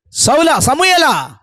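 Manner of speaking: acted divine call. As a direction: summon someone by name, drawn out. God calls out to Samuel.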